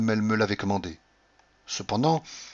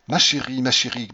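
a loud, happy cry of ma chérie; fond exclamation; 3 semitones higher, 4 dB louder than usual. Acted. Husband crying out to his lovely wife, delighted. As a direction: call out to her in delight. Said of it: "m'écriai-je".

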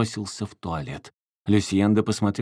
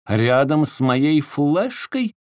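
slow, louder sarcastic jab; 6 semitones higher, 6 dB louder, slower than usual. A narrator's reading. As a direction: needle her with a slow sneer. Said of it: "съязвил Вальдемар". (язвительно, медленно и громко)

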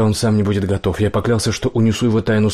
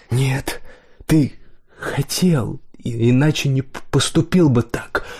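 higher, halting accusation; tearful stammer; 4 semitones higher, slower than usual. A narrator's reading. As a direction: stammer through the hurt, with breaks between words. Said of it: "Слёзы застилали его глаза".

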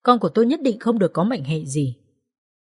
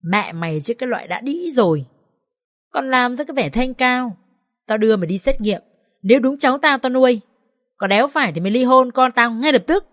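harsh scolding, raised pitch; furious mother-in-law; 5 semitones higher than usual. Acted. Mother-in-law abusing her son's wife, harsh angry scolding. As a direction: berate her with contempt.

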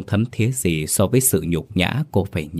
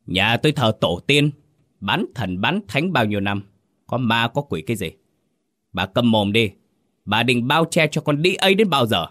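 scolding father, rising to a sharp shout at the end; angry father; 4 semitones higher than usual. Acted. Father berating his wife over their daughter, angry and rising. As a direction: berate her, building higher.

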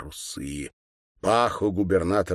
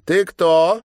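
put-on high, louder girlish demand; haughty girl; 10 semitones higher, 8 dB louder than usual. A narrator's reading. Schoolgirl questioning the kneeling governor, high and haughty. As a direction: snap the question down at him. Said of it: "спросила одна из девочек".

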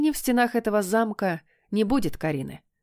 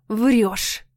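through teeth; 4 dB louder than usual. Acted. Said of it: "процедила я".

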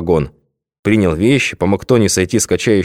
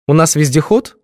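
higher, spiteful jab; vengeful; 8 semitones higher than usual. A narrator's reading. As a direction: needle him with spite. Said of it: "мстительно поинтересовалась Светка".

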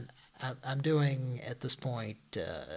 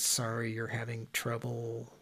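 condescending tone; 4 dB quieter than usual. Retold or imitated. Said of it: "That's the tone in her voice".

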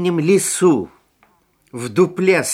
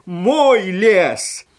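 monster boasting; 3 semitones higher than usual. Acted. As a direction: crow over the forest like a snow monster. Monster boasts after laughing.

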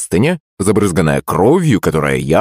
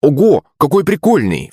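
excited exclamation; 8 semitones higher than usual. A narrator's reading. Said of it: "вскрикнул Илья".

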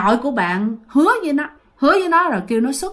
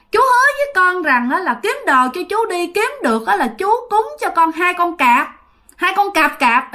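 put-on a higher, childlike voice; naive child voice; 5 semitones higher than usual. Ghost child telling great-grandpa, high childlike whine. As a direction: sound like a guileless six-year-old complaining. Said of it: "cái giọng của chú ngô nghê như một đứa con nít mới sáu bảy tuổi".

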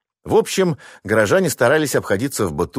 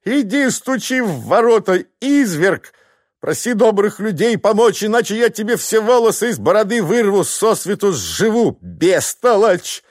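wife threatening husband to fetch help; furious threats; 12 semitones higher than usual. Acted. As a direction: threaten him into knocking.

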